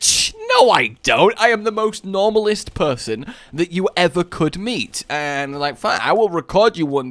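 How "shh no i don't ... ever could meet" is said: high scoff, then emphatic protest; mock-offended retort; indignant denial. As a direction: insist on it, acting affronted. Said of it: "and I'm like".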